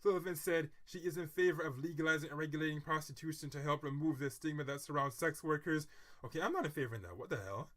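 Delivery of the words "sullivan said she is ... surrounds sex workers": steady news-style reading; article read-aloud. Acted.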